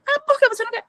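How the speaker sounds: high mock voice of a pushy mom; insistent mother. Mom pressing daughter about coffee, high insistent mock voice.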